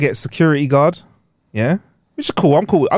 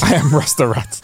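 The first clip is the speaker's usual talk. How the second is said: fake Jamaican accent. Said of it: "a fake version".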